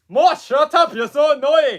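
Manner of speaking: high, loud, put-on cartoon king voice. Speaking to Moss while introducing Stitch, in a King Julian voice. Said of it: "my King Julian voice has gotten worse".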